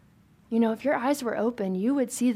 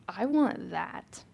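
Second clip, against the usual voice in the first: inner craving; 5 dB quieter, much slower than usual. Retold or imitated. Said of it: "something in us that's like".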